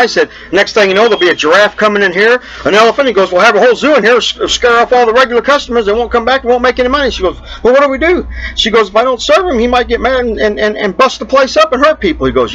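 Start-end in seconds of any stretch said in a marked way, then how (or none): 0.5-7.1 bartender voice. Acted. 7.6-12.2 waitress voice. Acted.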